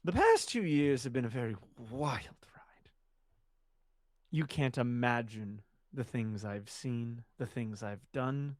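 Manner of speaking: whispering. Acted. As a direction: breathe it out, secretive. Boasting character drops to whisper.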